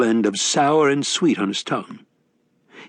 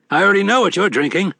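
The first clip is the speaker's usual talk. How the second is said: a touch higher, genial con man; sly old grifter, a bit higher; lightly voiced Wednesday; 10 semitones higher, 4 dB louder, faster than usual. A narrator's reading.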